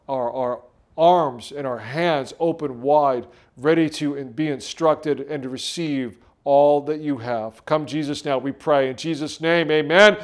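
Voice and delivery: hushed, earnest prayer, slowed in places. Acted. Pastor praying over the congregation, low and reverent.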